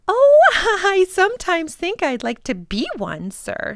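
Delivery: chuckling reply to her employer; light laughing woman voice; laughing housekeeper. Acted.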